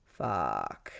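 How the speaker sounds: very low, soft curse under the breath; deflated curse. Retold or imitated. Storyteller cursing to herself after monarch butterflies smacked her in the face, low deflated curse. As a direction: drop it low and quiet, resigned.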